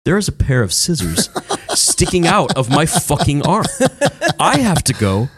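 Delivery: lightly voiced kid's deliberate announcement; measured retelling, pausing between phrases; imitated injured kid. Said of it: "That's how he says it?".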